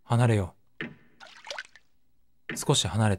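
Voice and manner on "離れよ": composed, measured; calm. Acted. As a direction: keep your cool and say it evenly. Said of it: "ここは冷静に。".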